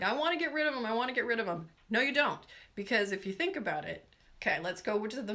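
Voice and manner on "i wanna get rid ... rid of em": mock insistent plea, pitched up at first; mildly hammed-up demand; everybody complaining. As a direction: imitate people eager to be rid of it. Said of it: "everybody's like".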